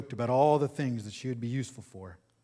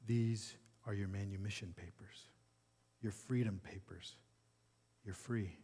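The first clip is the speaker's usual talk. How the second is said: gentle; 2 semitones lower, 8 dB quieter than usual. A narrator's reading. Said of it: "He gently quieted her".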